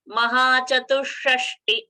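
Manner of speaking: "Mahachatushashti" slowly, with a brief last ti; short final ti. Shown as a demonstration. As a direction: cut the end of "Mahachatushashti" short. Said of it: "that is short".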